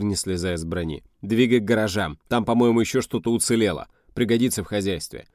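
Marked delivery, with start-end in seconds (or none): 1.2-5.3 raised commanding voice; moderately loud field command; shouted orders. Acted. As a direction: give orders from up on the armour. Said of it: "крикнул командир".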